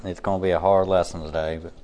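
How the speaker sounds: level, even monotone voice. Real, not acted. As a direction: keep every line flat and level. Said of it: "a monotone voice".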